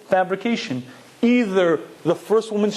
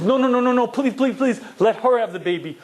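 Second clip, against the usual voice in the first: higher, rapid pleading cries, mildly hammed-up; mock panicked scream; 5 semitones higher than usual. Woman begging the king to spare her baby, mock panicked plea. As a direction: imitate a woman begging frantically, voice pitched up. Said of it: "one of the women screams".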